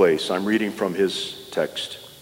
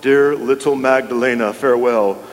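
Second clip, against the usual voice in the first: exclaimed farewell; 3 semitones higher than usual. Retold or imitated. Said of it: "he exclaimed".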